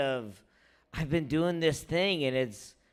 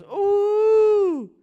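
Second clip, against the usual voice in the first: high loud mocking ooh; teasing high ooh at a bad domino player; mock shocked squeal; 5 dB louder than usual. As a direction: squeal it way up high like a crowd reacting. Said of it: "And she goes".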